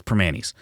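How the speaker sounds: Primanti's said "pruh-MAN-eez", no T; Primanti's said the Pittsburgh way, dropping the t; local pronunciation. Shown as a demonstration. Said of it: "that's how you say it here".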